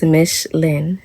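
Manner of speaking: Mish Lynn slowly, just like it sounds; name pronunciation demo. Shown as a demonstration. Speaker correcting the tire reading, Mish Lynn sounded out slowly. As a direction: say Mish Lynn as two slow parts, MISH and LIN. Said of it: "just like it sounds".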